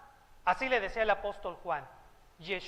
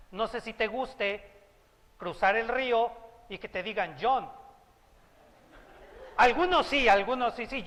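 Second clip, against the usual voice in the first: ordinary talk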